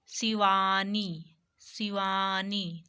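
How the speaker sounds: शिवानी said very slowly, stretching the middle; teacher's slow-motion शिवानी; drawn-out demonstration. Shown as a demonstration. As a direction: sound out शिवानी slowly for learners. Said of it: "short आई".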